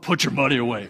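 stunned question, unsure he heard right; incredulous echo. Retold or imitated. Cashier offers to pay, he echoes him in disbelief. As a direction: repeat it back in disbelief. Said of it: "I'm like".

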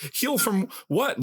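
slow, high, disbelieving question; incredulous. Retold or imitated. Patient questioning the doctors' advice, slow and disbelieving. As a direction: ask it in mock disbelief. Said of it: "But it was like".

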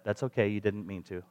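very soft, low retold child's reply; kid's forgiveness. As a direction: imitate a child gently letting it go. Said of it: "That's how they say that".

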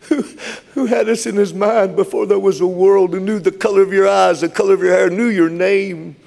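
impassioned sermon delivery; fervent preaching. Real, not acted. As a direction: build the list up high, stretch the last phrase. Preacher builds in fervour.

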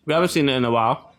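talking through a mouthful of food; words round a bite of food; mouth full. Real, not acted. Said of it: "Sorry, I have food in my mouth".

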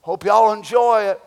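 understated mock of a pushover; meek surrender. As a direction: shrug it off meekly. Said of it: "we said".

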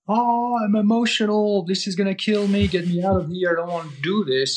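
starts high and whiny, sinking back to normal; hammed-up panic fading into a grumble; mock panicky inner voice. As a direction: voice the frightened nervous system, then let it fade. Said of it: "the factory settings, which is".

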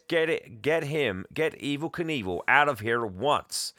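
retold indignant demand; barked order. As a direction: play an irate boss giving orders. Boss orders the intruder out.

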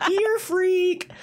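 high, laughing through the words. Real, not acted. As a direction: squeak it out mid-laugh. Repeating joke while laughing.

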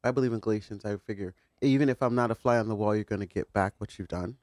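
far from the microphone; speaking away from the mic. Real, not acted. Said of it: "You're off mic".

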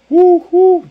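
high, loud joyful whooping; excited whoop. Real, not acted. Preacher celebrating to the congregation with loud high whoops.

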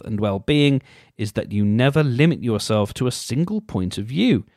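mock-earnest reading; reading aloud. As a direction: read it like a horoscope entry.

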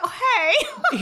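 high-pitched, laughing greeting; playful, squeaky-high hello; high mock greeting. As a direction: pipe up high through a laugh. Acts out relieved greeting to friend.

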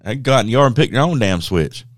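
mock stern parent. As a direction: playfully order a kid outside for punishment. Acts out parent ordering punishment.

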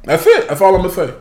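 teasing. Real, not acted. Teasing, refusing to say more.

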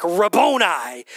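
cried out. Acted. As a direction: call it out in recognition. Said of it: "she cried out in Aramaic".

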